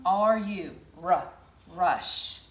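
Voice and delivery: "ru-" then "rush" with a firm sh; sound it out. Shown as a demonstration. Teacher sounding out rush. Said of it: "the last one".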